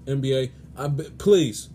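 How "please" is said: sudden louder please; pleading. Real, not acted. Sports host begging the NBA for better games, pleading. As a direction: burst out begging on one word. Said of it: "I'm begging you guys".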